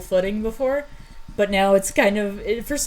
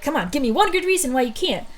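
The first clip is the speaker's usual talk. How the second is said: higher-pitched friendly challenge; encouraging; 6 semitones higher than usual. Acted. Urging Thunder to try her flame, encouraging. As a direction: coax a struggling friend along. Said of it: "like, an encouraging way".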